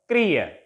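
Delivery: "career" with short ca-, stressed REER; caREER, weight on the end; stress on last syllable. Shown as a demonstration. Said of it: "stress will take place on the last syllable".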